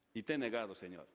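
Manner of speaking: a broken man admitting his love; grieving Peter. Acted. Peter confesses denial.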